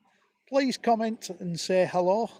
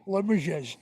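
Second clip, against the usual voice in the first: Limoges said in an East Lancashire accent, like lim-uh-zhez; broad East Lancashire Limoges, flat and falling. Shown as a demonstration. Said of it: "How you say it in an East Lancashire accent".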